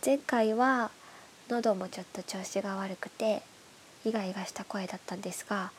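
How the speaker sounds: stuffy nose from hay fever; nasal voice. Real, not acted. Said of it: "鼻詰まりの鼻声で喋ってます".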